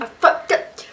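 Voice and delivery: whispered guilty admission. Real, not acted. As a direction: breathe it out, caught out. Caught cussing.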